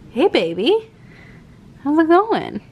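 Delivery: high sweet pet voice. Real, not acted. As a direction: coo at the pet. Greeting pet.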